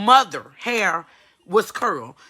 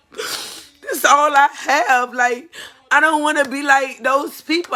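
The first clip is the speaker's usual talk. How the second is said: crying; 2 semitones higher than usual. Real, not acted. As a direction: choke the words out through tears. Distraught mother venting on camera.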